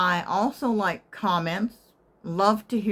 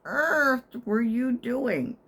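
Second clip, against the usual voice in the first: higher, slow, drawn-out disbelief; incredulous; 7 semitones higher, slower than usual. Retold or imitated. Asking the returning med tech, incredulous. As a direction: stretch the question out, amazed. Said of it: "I said".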